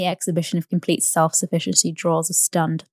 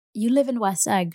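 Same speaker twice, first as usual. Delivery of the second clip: contemptuous; 4 semitones higher than usual. Acted. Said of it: "she remarked contemptuously".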